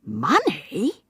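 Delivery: a breathy, high questioning money; feigned surprise. A narrator's reading. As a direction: Wotton fakes innocent surprise at the money, breathy. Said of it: "expressed artless surprise".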